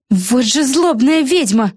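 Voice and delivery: slow, high-voiced exclamation; high girl's voice, slow and cross; angry girl. A narrator's reading. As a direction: spit it out slowly as a young girl. Character line.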